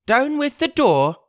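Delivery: high commanding cry. Acted. Blind beggar cries at his crew, loud. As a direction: bark the order at the door. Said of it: "he cried".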